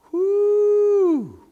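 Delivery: long, high, loud "whoo"; high whoop. Acted. Preacher reacting to threat of stoning, high whoop. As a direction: let out a sustained falsetto whoo. Reacting to Moses's bad day.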